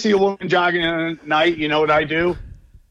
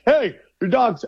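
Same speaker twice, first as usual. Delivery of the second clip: mock yelling; 6 semitones higher than usual. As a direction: imitate an irate lawn owner calling out. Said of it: "comes out and yells at me".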